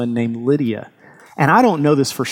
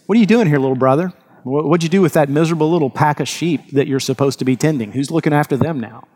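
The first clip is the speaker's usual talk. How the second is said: sarcastic taunt; faster than usual. Retold or imitated. Older brother taunting David at the front lines, sarcastic. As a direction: sneer down at the little brother, quick and scornful. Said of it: "you hear the sarcasm in Eliab's voice".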